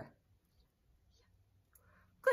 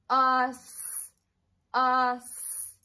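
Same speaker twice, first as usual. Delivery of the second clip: "Us" called out loud and clear; loud demo word; 9 dB louder than usual. Shown as a demonstration. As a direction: call out "Us" loudly for kids to copy. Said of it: "repeat after me".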